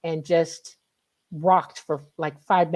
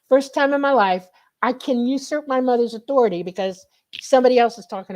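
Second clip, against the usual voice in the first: excited; 4 semitones higher than usual. Retold or imitated. Retold triumph over mother.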